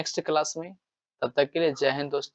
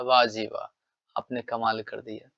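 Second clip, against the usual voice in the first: put-on mischievous boy praising; 4 semitones lower than usual. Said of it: "वो हमेशा कहेगा".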